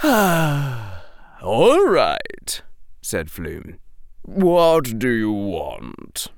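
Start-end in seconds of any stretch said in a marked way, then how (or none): 0.0-2.6 put-on sighing old shopkeeper giving in; resigned old man. 4.2-6.3 very slow, resigned question; weary old shopkeeper. Acted. Old man giving in.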